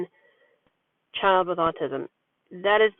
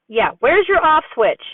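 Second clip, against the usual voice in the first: playful tickling tease; 7 semitones higher, 4 dB louder than usual. Retold or imitated. Mom tickling her son in bed, playful higher tease. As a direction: tease a giggling child while tickling. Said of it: "And I said".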